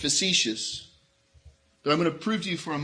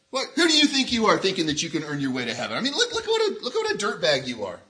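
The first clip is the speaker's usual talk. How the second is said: mock scolding; 4 semitones higher, faster than usual. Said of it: "That's what we would do".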